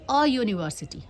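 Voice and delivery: "अ यूनिवर्सिटी" with bare uh before the y sound; correct article shown. Shown as a demonstration. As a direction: land "अ यूनिवर्सिटी" as the answer, no n. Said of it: "तो आप क्या बोलेंगे?".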